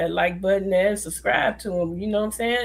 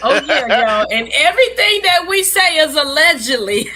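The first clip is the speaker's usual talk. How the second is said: talking through laughter; loud laughing words; 7 semitones higher, 10 dB louder than usual. Real, not acted.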